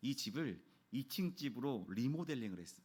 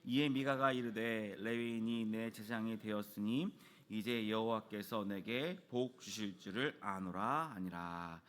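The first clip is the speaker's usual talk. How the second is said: slow, measured Bible reading; scripture reading; 3 semitones lower, slower than usual. Acted. Pastor reading scripture to the congregation, slow and measured. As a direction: read the verse out slowly and solemnly. Reads Bible verse aloud.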